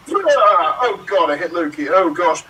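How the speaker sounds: mock panic. Thor after hitting Loki, hammed-up alarmed cry. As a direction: blurt it out in mock horror.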